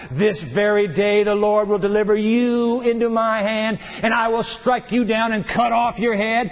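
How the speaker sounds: steady, ringing declaration; scripture proclamation. Acted. Preacher reading David's reply, proclaiming. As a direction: proclaim it like a battle vow.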